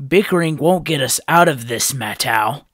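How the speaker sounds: scolding. A narrator's reading. Nokama scolding Matau.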